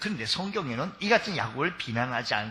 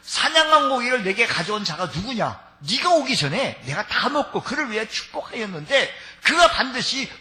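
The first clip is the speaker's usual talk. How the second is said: agitated, raised shaken question; trembling alarm; 5 semitones higher, 4 dB louder than usual. Acted. Isaac alarmed to learn who got the blessing. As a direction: let the old man's shock shake it. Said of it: "이삭이 힘이 크게 떨며".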